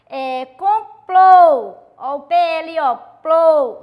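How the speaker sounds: complô slow and loud, hitting the closed plô; loud teacher emphasis on plô; stressed final syllable. Shown as a demonstration. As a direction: spell it out loudly for the class: complô, P L O, plô. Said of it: "a pronúncia é mais forte".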